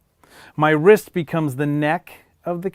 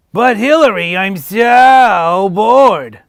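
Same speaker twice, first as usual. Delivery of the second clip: loud, high, very slow whine; bored puppet whine; 6 semitones higher, 11 dB louder, much slower than usual. Acted. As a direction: drag out the boredom. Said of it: "dilemma between two puppets".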